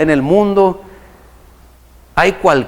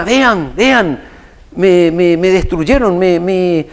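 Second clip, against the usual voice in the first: imitating an upset woman's outburst, slightly raised; mildly mocked-up yell of protest; grito imitado; 2 semitones higher, much slower than usual. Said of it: "pero estaba gritando, despotricando". (protesta a gritos, imitada a media voz)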